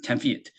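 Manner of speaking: "Ten feet" with a quick "eh" in "Ten"; short E. Shown as a demonstration. Teacher correcting the vowel, "Ten feet" with short E. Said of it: "E 사운드는 짧게 끊어치셔야".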